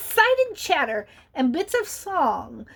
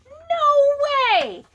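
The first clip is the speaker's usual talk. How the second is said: shocked no way; 12 semitones higher, 5 dB louder than usual. Real, not acted. Reacting to children's vote.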